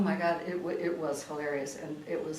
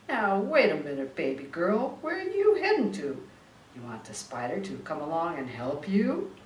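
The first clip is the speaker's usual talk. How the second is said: lightly voiced slick gangster, coaxing; a hint of a smooth mobster sweet-talking; mock wiseguy charm; Spider's coaxing; 5 dB louder than usual.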